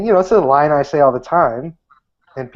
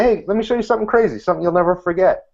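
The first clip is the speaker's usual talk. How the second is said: eager pitch; 5 semitones higher, faster than usual. Shown as a demonstration. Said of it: "I like to just be honest and say".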